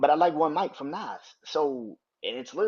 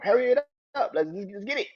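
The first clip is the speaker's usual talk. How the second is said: impatient; 6 semitones higher, 5 dB louder than usual. Real, not acted. Impatient with slow intro.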